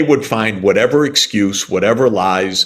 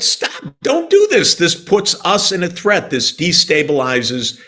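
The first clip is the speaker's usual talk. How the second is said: high, urgent plea that starts breathless; begging them to stop, pitched well up; voicing the Russians' alarmed warning; pleading Russians; 4 semitones higher than usual. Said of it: "The Russians said".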